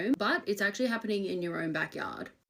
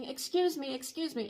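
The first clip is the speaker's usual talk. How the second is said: a light imitation of a sweet, higher woman's voice; 5 semitones higher than usual. Stranger in a car calling to a passerby, sweetly imitated. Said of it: "it's sounding really sweet".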